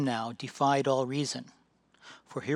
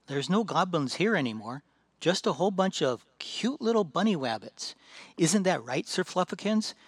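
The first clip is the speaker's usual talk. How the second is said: put-on light childish baby talk to a bunny, rising higher; 4 semitones higher than usual. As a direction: coo like a little girl cuddling a rabbit. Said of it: "she says in a childish manner".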